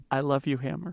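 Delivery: tender, laughing. Acted. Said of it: "and he says".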